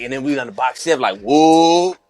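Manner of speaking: animated retold cellmate voice; cellmate impression. Imitating his cellmate telling a story, animated. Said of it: "how that, how that was going".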